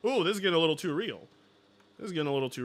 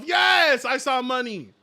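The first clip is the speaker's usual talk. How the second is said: mock greedy voice; 3 dB louder than usual. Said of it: "I think to myself".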